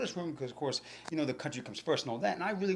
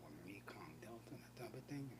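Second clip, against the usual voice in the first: teasing whispered aside; retold whispered wisecrack; mock whisper; 4 semitones lower, 18 dB quieter than usual. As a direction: whisper the jab back. Mocking reply, whispered.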